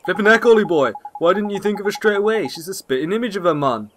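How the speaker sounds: lightly voiced scolding fairy, lively pitch; exasperated little fairy sidekick; cheeky fairy companion.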